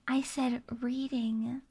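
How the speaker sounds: "reading" said slowly and deliberately; stress on reading. Real, not acted. Streamer repeats the correction to chat, slow careful "reading". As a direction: spell out "reading" with careful emphasis. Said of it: "Reading requests".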